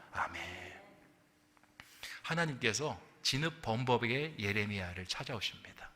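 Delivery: usual speaking voice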